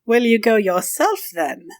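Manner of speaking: slow leer, dropping away at the end; a slow, insinuating question. Acted. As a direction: draw it out suggestively, leering. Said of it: "he says leeringly".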